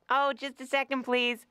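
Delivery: high, sing-out stalling to the door; calling through door. Acted. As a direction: ask them sweetly to wait, pitched high. Acts answering creditors at door.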